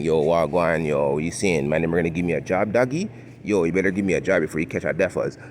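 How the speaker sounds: quick put-on Toronto street slang accent; mock Toronto mandem slang. Imagined job applicant demanding work, mock Toronto slang accent. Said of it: "No one's talking like that".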